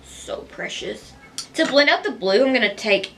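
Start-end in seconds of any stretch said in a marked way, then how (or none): 0.0-1.1 soft whispered coo over a sleeping cat. Real, not acted. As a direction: breathe it out fondly. Cooing over napping cat.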